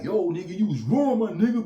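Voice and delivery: high, loud voice of the friend scolding later; imitating the loyal friend. Mocking what the friend says later, high and loud. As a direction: play the homie calling him out. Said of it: "I might tell him later, like".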